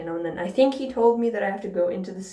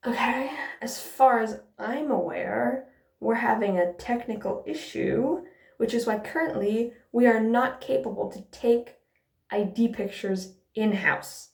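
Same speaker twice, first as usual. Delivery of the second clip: hushed clerk imitation; 3 semitones higher than usual. Imitating the clerk explaining the photo machine is down, hushed. Clerk's reply voiced in story.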